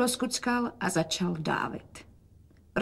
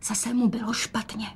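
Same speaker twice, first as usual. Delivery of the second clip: hushed whisper so the father can't hear; 2 semitones higher, 5 dB quieter than usual. A narrator's reading. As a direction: whisper it under the breath. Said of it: "dodala šeptem". (šeptem, aby to otec neslyšel)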